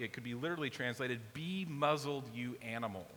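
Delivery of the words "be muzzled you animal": harsh. Shown as a demonstration. Jesus silencing the demon like a beast, harsh. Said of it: "It's really kind of harsh".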